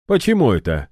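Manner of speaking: high, loud, taken aback; surprised; surprised question. A narrator's reading. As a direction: caught off guard by the answer. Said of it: "удивился Ильдар".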